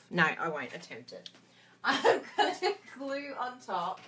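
normal talking voice

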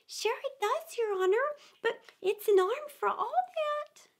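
very high Irish lilt; easygoing Irish gardener answering his master; Irish gardener answering the rabbit; Irish servant. A narrator's reading.

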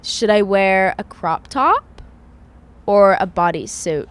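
deliberate, uncertain American accent attempt. Shown as a demonstration. Testing it on host, careful American accent. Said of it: "You were good until suit".

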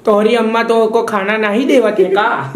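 lightly put-on Bhojpuri lilt; a hint of Bhojpuri dialect; mock Bhojpuri. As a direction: tease in playful, imitation Bhojpuri. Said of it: "ये इसको भोजपुरी कहवत है".

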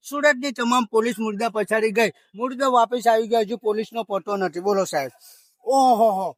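light comic newsreader parody, punching each place name; mock news announcement. Shown as a demonstration. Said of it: "લોકોને હસાવવાનું કામ કરતા હતા".

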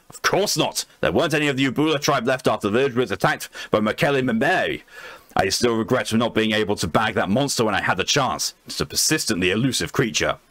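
lightly voiced boastful old explorer; Lord Blackwood voice. Blackwood dismisses the researcher's doubts, a light pompous voice. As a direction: brush off the doubt like a proud adventurer. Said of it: "I'm gonna have to do a voice for it".

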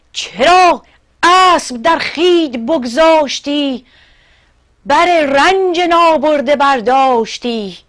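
high, loud protest in verse; declaimed shout. Acted. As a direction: cry out indignantly as the field guard. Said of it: "دشتبون فریاد زد". (فریاد اعتراض با صدای بلند و کشیده)

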